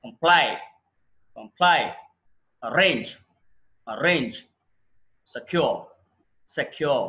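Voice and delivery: కంప్లై, అరేంజ్, సెక్యూర్ each with the second syllable punched; light first syllable, strong PLY, RANGE, CURE in కంప్లై, అరేంజ్, సెక్యూర్; second-syllable stress. Shown as a demonstration. Teacher models two-syllable verbs, stress on second syllable. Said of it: "second syllable మీద stress ఇవ్వాలి".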